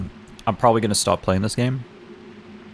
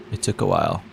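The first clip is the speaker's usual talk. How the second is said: talking while chewing; words round a mouthful of food; mouth full. Real, not acted. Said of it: "Sorry, I'm eating food right now".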